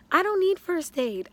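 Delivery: high, loud protest; retold indignant refusal. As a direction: wave off help in an acted protest. Retold refusal of first aid.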